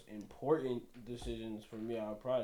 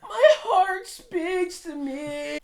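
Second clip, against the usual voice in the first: mock dramatic whisper; 13 dB louder, much slower than usual. Mocking corny heart line.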